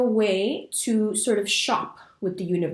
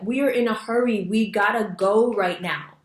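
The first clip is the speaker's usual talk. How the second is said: mildly raised, insistent acted parent; impressing urgency; 2 semitones higher, 3 dB louder than usual. Parent telling a toddler they're in a hurry, mock urgent. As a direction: press the urgency, drawing out the final words. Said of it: "impress upon them the importance".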